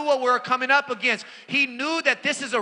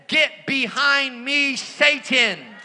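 with attitude; 3 semitones higher, much slower than usual. Retold or imitated. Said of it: "with attitude too".

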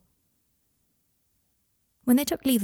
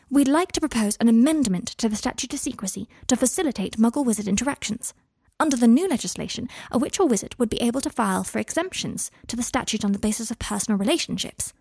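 a slightly raised proposing voice; lightly voiced Hermione, earnest; 4 semitones higher than usual. Hermione proposing an amendment to Kingsley, mildly earnest.

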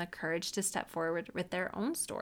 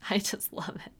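whispered delight. Real, not acted. Whispered after laugh.

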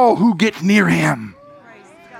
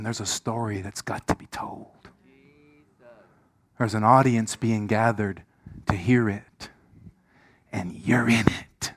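gentle invitation; 7 semitones lower, 7 dB quieter than usual. Retold or imitated. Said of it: "God's saying".

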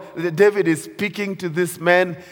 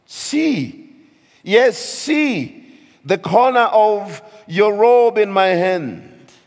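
David pleading; 2 semitones higher, 4 dB louder than usual. Retold or imitated. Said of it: "And David said".

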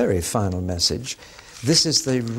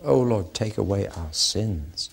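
1 humble prayer; 4 semitones lower than usual. Shown as a demonstration.

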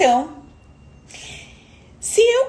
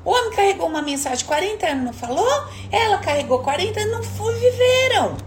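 espanto imitado; 6 semitones higher than usual. Retold or imitated.

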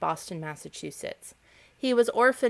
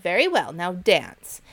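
mocking cry; 6 dB louder than usual. The ants sneer at the grasshopper, loud and scornful. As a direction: throw his excuse back at him. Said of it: "they cried".

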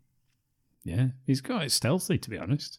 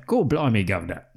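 cockney quip. Retold or imitated. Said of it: "That kind of thing".

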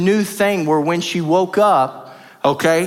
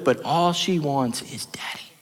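whispered aside; 6 dB quieter than usual. Real, not acted. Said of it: "whispered emphasis".

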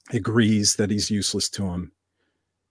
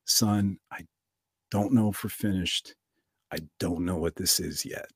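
put-on calm old father; 3 semitones lower, 7 dB quieter than usual. Elderly dad consoles his injured son, soft and steady. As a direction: gently refuse to despair.

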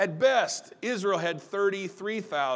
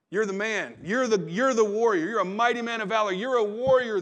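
insistent angel; 4 semitones higher, 5 dB louder than usual. Retold or imitated.

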